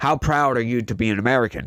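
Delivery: ordinary talk, nothing marked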